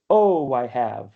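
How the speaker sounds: "Oh, I have" slowly, the "Oh" stressed; slow scansion. Shown as a demonstration. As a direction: read it slow to show the dactyl. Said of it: "So this is a dactyl".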